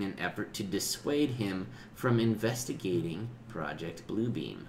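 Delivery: even, measured article read-out; reading aloud. Real, not acted. Host reading a conspiracy theory to a friend, measured read-aloud. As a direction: read it out like an encyclopedia entry.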